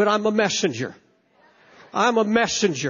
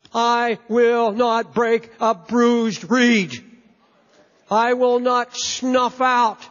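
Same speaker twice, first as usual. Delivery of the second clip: slow, measured and grave; solemn divine promise; much slower than usual. Acted. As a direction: speak it as God's gentle vow. God's promise quoted solemnly.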